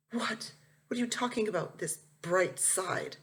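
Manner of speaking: can't believe what his mother just said; incredulous. Acted. Son disbelieving mom's bright side.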